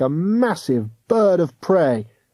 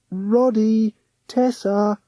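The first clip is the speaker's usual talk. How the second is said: called gently; 9 semitones higher, slower than usual. A narrator's reading. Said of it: "he called out gently".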